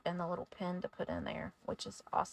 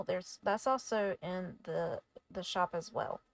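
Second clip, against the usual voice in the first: stumbling over words; tripping over the words, stammering; stuttering. Real, not acted. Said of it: "Sorry, I'm stuttering on my words".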